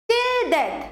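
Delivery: quick "till", weightier "death"; high "till" falling onto a stressed "death". Shown as a demonstration. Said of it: "till তাড়াতাড়ি উচ্চারণ হলো, ডেথ দেখো একটু stress বেশি পড়লো". (till তাড়াতাড়ি, death-এ একটু জোর)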